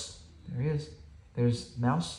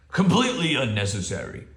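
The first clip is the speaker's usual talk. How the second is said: announced; 4 dB louder than usual. Acted. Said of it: "Bear announced".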